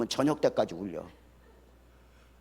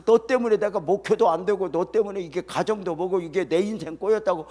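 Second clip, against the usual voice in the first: angry blame; 4 semitones higher, 5 dB louder than usual. Retold or imitated. Husband yelling at sick wife.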